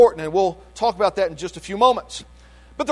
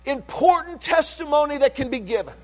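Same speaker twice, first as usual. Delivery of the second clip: preaching at full force; 5 semitones higher than usual. Acted. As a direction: lift it like a pulpit climax. Preaching climax.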